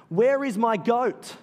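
ridiculous petulant demand; mock indignant. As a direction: whine it like a sulky older brother. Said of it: "It sounds ridiculous when you say it like that".

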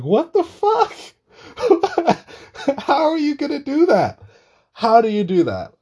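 squeaky high, loud disbelief through laughter; laughing disbelief. Real, not acted. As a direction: squeal it in amused outrage. Incredulous reaction, laughing.

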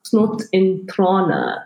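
slow attempt at Afrikaans "Snot in trana"; "Snot in trana", slowly, with Afrikaans sounds; Afrikaans pronunciation. Shown as a demonstration. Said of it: "what do they say in Afrikaans".

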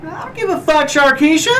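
sassy woman voice. Pretend. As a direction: toss it off like a sassy diva. Sassy woman role, high pitch.

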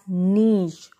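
"niche" as NEESH; correct SH ending. Shown as a demonstration. Teacher repeating for learners, niche as NEESH. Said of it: "It is pronounced as".

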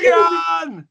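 high shouted Rocky call, drifting Jamaican; Rocky-style call. Acted. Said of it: "that's Jamaican".

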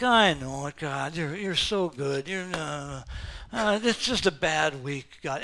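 low, soft, tired voice; a lightly voiced weary David; weary prayer. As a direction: mumble it like a worn-out prayer. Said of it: "he's like".

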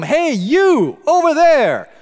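retold shout across the business office; shouting across a room. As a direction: hail someone across the office. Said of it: "a voice shouts from across the room".

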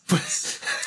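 Fwis whispered sharp and punchy. Shown as a demonstration. Friend shows how Fwis should sound, punchy. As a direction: spit out Fwis with a quick punch. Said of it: "a real punchiness to it".

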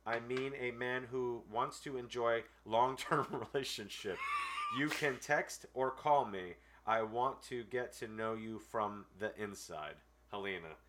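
slow, deliberate read of a clumsy letter; dry dramatic reading; reading a letter aloud. Acted. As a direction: read it word for word, pauses and all. Reads a scam letter aloud.

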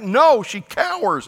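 high, loud, slow protest; mock indignant denial. Preacher plays the husband protesting, high, loud and slow. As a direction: huff it out like an offended man.

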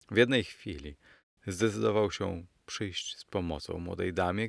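ordinary delivery

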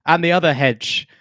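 theatrical forsooth voice, high start; hammy Shakespearean actor. Acted. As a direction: ham it up like a stage Shakespeare.

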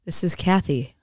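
whispery public-radio host introduction; hushed, understated NPR voice. Pretend. Cohost introduces herself as if on NPR, hushed. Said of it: "they would do the N P R radio".

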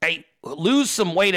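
"lose" said slowly as written; misspelled lose read out. Retold or imitated. Reading a fan's typo to the chat, slow mocking read. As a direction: reads out the customer's "lose" mockingly. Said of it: "At least spell lose correctly".

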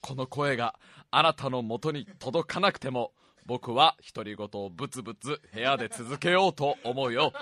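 hoarse, worn-out voice; smoker's rasp. Real, not acted. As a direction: speak through a raspy throat. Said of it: "たとえ声が枯れても". (かすれた声)

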